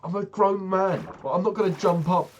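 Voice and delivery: loud, high and slow, incredulous; a grown man's scoffing disbelief, belted out; exasperated outburst. Real, not acted. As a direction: raise your voice in disbelief at the very idea. Exasperated rant about the salesman.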